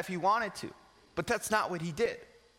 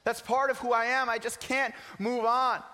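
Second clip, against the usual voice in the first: hopeless doubter; 4 semitones higher than usual. Retold or imitated.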